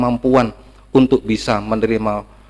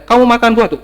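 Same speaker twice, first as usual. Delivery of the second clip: stern question from God; 11 semitones higher, 4 dB louder than usual. Acted. God questions Adam in story.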